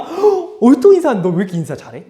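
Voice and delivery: high, quick happy praise; a pleased teacher praising a polite student; teacher beaming at a student who greets again; delighted praise. Retold or imitated.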